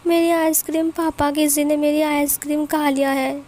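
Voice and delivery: put-on a small girl wailing about her ice cream; little kid fussing over a lost treat; whiny little girl. Three-year-old complains to papa.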